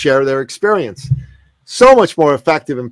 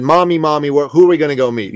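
put-on excited child; 3 semitones higher, faster than usual. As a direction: imitate an excited kid pestering mom. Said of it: "He was all excited".

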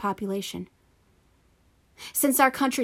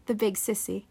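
mock child echo; 3 dB quieter than usual. Shown as a demonstration.

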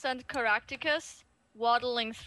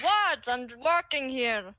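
Samson being indignant; 3 dB louder than usual. Acted. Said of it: "Samson's like".

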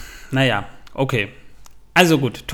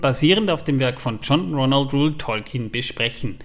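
gasping for air. Real, not acted. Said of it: "außer Atem".

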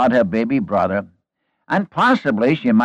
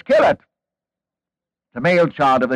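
harsh royal command; 4 semitones higher, slower than usual. Retold or imitated. Pharaoh's harsh command voiced.

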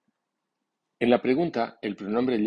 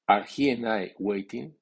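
"he" and "I" stressed, uncontracted, rising question. Shown as a demonstration. Teacher models a multiple-subject question, strong stress on "he" and "I". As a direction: give "he" and "I" full strong accents. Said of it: "lleva acento fuerte si es sujeto múltiple".

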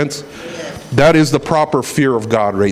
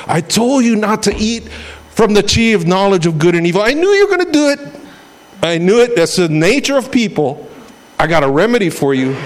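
disappointed God, pitched up high on knowing; a heartbroken father who saw it coming; the voice of God, hurt but firm; God scolding Adam; 5 semitones higher than usual. Acted.

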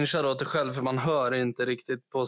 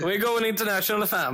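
hyped English; 7 semitones higher than usual. Pretend. Mock English hype line.

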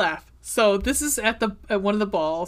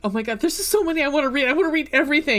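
fast, high and louder gush; excited gushing; 4 semitones higher, 4 dB louder, much faster than usual. Real, not acted. Telling a friend every passage deserves reading, excitedly. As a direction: spill over with book excitement. Gushing about favorite book.

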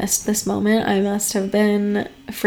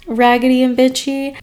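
higher, sassy mock put-down; sassy dismissal; 4 semitones higher than usual. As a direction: toss it off like a diva. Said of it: "said, "Girl, bye".

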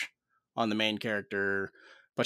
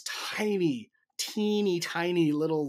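miming tininess; 7 semitones higher, 4 dB louder, slower than usual. Retold or imitated. Describing her tiny cheering voice, pitched up. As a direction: pitch lifts on the tiny words.

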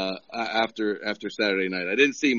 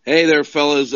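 loud greeting; 3 semitones higher, 14 dB louder than usual. Real, not acted.

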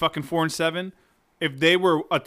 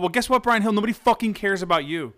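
heated rant; 5 semitones higher than usual. Real, not acted. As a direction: tell him off, getting heated. Ranting at absent player.

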